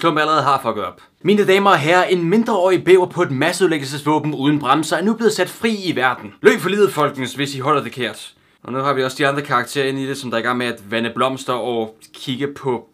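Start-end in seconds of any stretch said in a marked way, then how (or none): 1.2-8.3 mock public warning. Mock public warning about the rampage.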